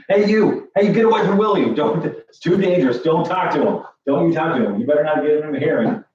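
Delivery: high, urgent guard calling out; a guard runs down the dock shouting a warning; guard yelling warning. Acted. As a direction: shout them away from William. Guard yells warnings at players.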